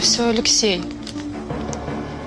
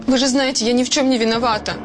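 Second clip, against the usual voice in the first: pleading; 14 semitones higher, faster than usual. Acted. Suspect pleading again.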